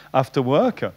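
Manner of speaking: English phrase in a French accent. Real, not acted. Lecturer completing English example sentence, French-accented English. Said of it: "vous allez remarquer mon accent anglais".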